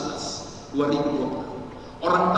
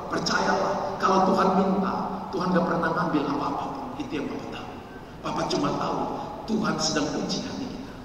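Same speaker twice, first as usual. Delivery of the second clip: soft fatherly reassurance, retold; 4 semitones lower, 5 dB quieter than usual. Father reassuring his daughter about giving.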